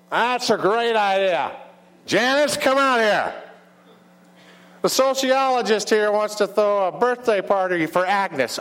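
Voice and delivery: high, loud New York diner owner; big drawn-out New York call; New York accent. Acted. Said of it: "have a New York accent".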